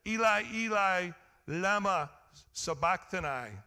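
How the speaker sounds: preacher voicing Jesus crying out from the cross, loud. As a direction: call it out like a man crying to God from the cross. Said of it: "Jesus cried out with a loud voice".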